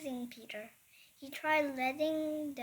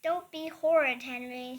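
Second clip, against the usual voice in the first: loud scolding shout; angry shout; 6 dB louder than usual. Acted. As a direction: snap the words at him. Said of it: "shouted Mom".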